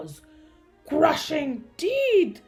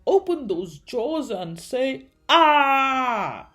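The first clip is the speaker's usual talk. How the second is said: louder, with a long 'Ah'; dentist's instruction; 3 semitones higher, 9 dB louder, slower than usual. A narrator's reading. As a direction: tell the patient to open wide. Nervous dentist instructs his patient.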